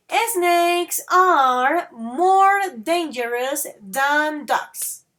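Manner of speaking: slowly, each word spelled out for the class; slow model sentence. Shown as a demonstration. Teacher to students, modelling slowly and clearly. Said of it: "Listen that again".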